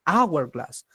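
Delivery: "Hourglass" opening on an A sound, no H; A onset. Shown as a demonstration. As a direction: show the A that starts "Hourglass". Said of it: "estoy pronunciando con A". ("Hourglass" pronunciada con A inicial, sin H)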